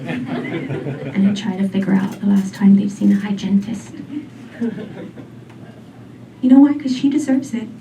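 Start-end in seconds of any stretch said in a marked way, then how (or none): 0.1-3.9 secretive whisper. Acted. Secretly checking sleeping date's teeth.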